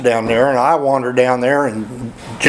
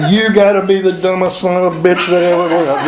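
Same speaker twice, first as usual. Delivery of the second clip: retold livid outburst; 4 semitones higher than usual. Storyteller imitating Dave cussing out Jack over the truck, mock livid. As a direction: act out a livid friend's insult. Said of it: "Dave is absolutely livid".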